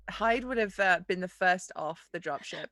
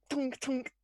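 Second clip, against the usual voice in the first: higher imitated double knock; knocking noise; 5 semitones higher, 4 dB quieter than usual. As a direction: voice two hollow knocks on a hatch. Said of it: "I get to the top and I'm like".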